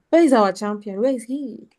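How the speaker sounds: loud call for the champion. Real, not acted. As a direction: shout across the hall. Host calls out for the champion.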